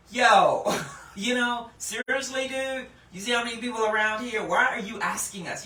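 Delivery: a hint of mock exasperated disciples, fast at the end; sarcastic disciples. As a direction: play it like a mildly fed-up buddy. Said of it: "a sense of sarcasm".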